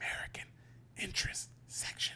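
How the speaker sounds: barely audible, breathy, hushed whisper, very quiet. Retelling a woman phoning the Swiss embassy while others sleep, retelling a whisper. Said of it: "She's whispering".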